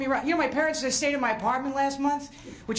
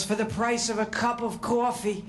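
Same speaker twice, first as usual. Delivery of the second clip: imitating ad lady; 2 semitones lower, slower than usual. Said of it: "where the lady goes".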